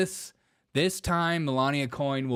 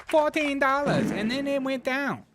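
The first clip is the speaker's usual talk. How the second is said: mock dismay; 11 semitones higher than usual. Mock dismay at coin price.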